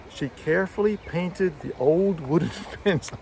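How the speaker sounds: stressed model reading of "carefully painted" that cracks up at "fence"; content-word stress, breaking into laughter. Shown as a demonstration. Teacher's demo interrupted by the dog, stressed reading dissolving into laughter. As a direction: lift "carefully", "painted", "old", "wooden", then laugh into "fence". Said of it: "slow down on those words".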